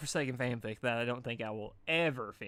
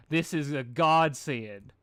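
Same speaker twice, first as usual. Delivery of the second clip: rapturous; 7 dB louder, much slower than usual. A narrator's reading. Derpy rapturous over muffin.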